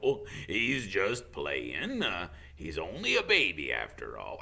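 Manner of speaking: put-on dote on the baby; fond Hagrid. Hagrid excusing dragon.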